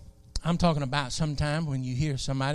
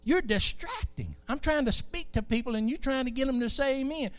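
voice of God; 9 semitones higher than usual. Retold or imitated. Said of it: "He said".

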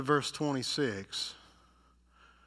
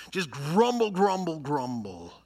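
mock grumble, dropping off at the end; mock grumbling; 2 semitones higher, 4 dB louder than usual. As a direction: imitate a crowd's grumbling. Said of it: "grumbled against Moses".

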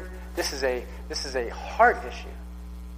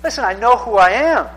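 secure confidence; 5 semitones higher, 6 dB louder than usual. Retold or imitated. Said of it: "just secure and like".

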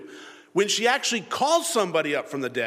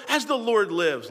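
higher, slowed mock vow; mock oath; 6 semitones higher, 4 dB louder, slower than usual. Saul assuring the lady, mock-grand oath. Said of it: "Saul swore to her".

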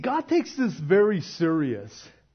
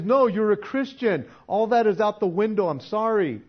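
firm declaration; 4 semitones higher, 7 dB louder than usual. Pretend. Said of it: "He says".

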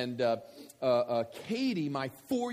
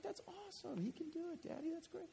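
a hint of an excited little girl, much higher and softer; lightly voiced delighted four-year-old; 13 semitones higher, 13 dB quieter than usual. Daughter cheering the big boy to her dad, lightly voiced.

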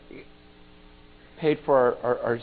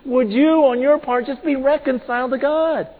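urgent, raised-voice begging; Paul; 9 semitones higher, 8 dB louder than usual. Retold or imitated. Paul begging the crowd to be reconciled, pleading. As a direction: implore them, high and loud, stretching the key words. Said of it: "I'm begging you guys".

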